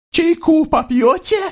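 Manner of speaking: high, shaky offer of tea to hide her nerves; trembling voice. A narrator's reading. Mother offering tea to hide her trembling, shaky and high. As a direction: let the voice quiver as she offers tea. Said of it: "вздрагивающим голосом спросила она".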